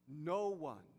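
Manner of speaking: "No one" set apart by pauses; emphatic quotation. Acted. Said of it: "Emphasis mine".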